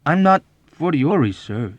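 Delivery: high protest falling away on sir; timid protest. A narrator's reading. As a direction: correct him timidly, trailing into deference. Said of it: "he said timidly".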